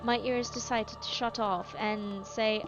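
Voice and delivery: English accent with Southern creeping in; attempted English accent. Shown as a demonstration. Streamer testing out a rusty English accent on viewers, attempted English accent. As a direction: have a shaky go at an English accent. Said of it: "trying to attempt an English accent".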